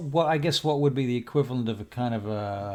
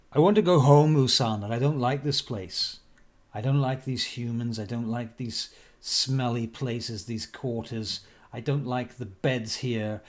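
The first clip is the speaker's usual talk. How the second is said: put-on drunk companion. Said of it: "seems to be a bit drunk and boisterous".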